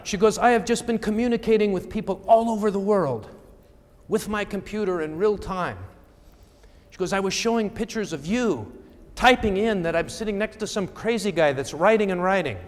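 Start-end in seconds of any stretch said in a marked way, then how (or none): 0.4-5.8 high-pitched imitation French accent. Seatmate boasts of her computer, high mock French accent. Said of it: "in kind of this French accent". 7.1-12.6 higher, put-on French accent. Seatmate teases the crazy guy writing, high mock French accent. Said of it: "in kind of this French accent".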